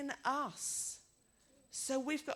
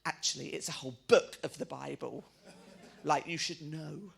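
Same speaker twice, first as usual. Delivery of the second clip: lower, louder tart reply; tired mother snapping at an old lady; grumpy retort; 6 semitones lower, 4 dB louder than usual. Retold or imitated. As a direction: put her in her place, tired and cross.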